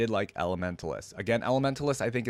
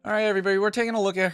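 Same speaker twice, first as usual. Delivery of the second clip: upbeat call out; 10 semitones higher, 7 dB louder, much faster than usual. Real, not acted. Announcing next section.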